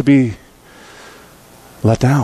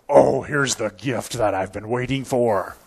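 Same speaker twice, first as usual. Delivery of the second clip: mock wonder; 4 semitones lower, 5 dB quieter than usual. Imagined delighted kid, acted.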